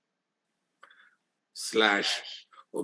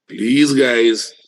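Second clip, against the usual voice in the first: loud exasperated please; 6 dB louder than usual. Real, not acted. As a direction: plead loudly, fed up. Scolding students in chat.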